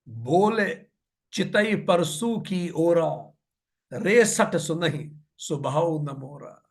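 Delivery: slow, measured verse chanting; verse recitation. A narrator's reading. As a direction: recite the scripture line with drawn-out syllables. (धीमा दोहा पाठ)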